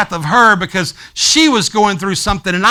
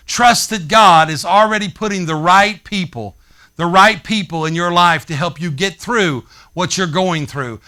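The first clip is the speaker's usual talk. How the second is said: slower repeat; 3 semitones lower than usual. Shown as a demonstration. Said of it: "a little slower".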